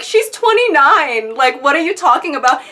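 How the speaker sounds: imitated indignant objection; retold exasperation. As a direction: interrupt with exaggerated disbelief. Retells interrupting in exasperation.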